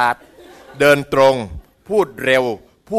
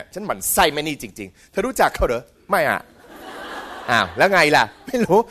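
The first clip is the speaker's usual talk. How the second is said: mock catty back-and-forth; jealous gossip; slower than usual. Envious person gossiping to a friend about a disliked woman, mock catty. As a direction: act out two gossips, drawn out. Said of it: "ชอบอิจฉา".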